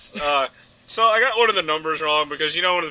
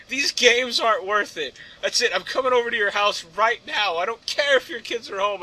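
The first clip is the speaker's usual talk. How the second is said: a hint of a scorned lover's threat; mock jilted lover; 6 semitones higher than usual.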